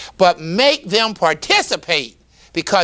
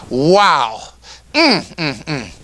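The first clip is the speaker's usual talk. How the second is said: heartfelt wow and hums; 4 semitones lower, slower than usual. Shown as a demonstration. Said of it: "just grab your heart as you talk about it".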